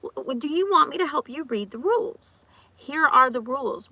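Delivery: mock teacher. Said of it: "I literally tell them that".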